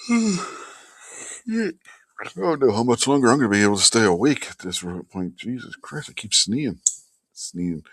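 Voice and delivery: tired breathy whisper. Real, not acted. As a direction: whisper it, half asleep. Exhausted late-night streamer.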